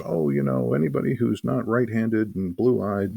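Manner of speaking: a hint of a preachy inquisitor; inquisitor's pompous line. Game master voicing the Inquisitor to players, mock pompous. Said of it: "gets up on his hind legs and says".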